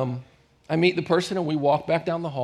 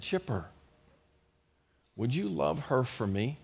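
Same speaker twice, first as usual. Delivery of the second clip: little voice; 6 dB quieter than usual. Retold or imitated. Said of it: "this little voice".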